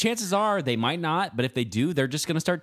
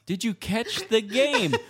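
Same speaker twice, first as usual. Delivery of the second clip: laughing disbelief; 4 semitones higher, slower than usual. Real, not acted. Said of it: "You can't ask that to a homeless person".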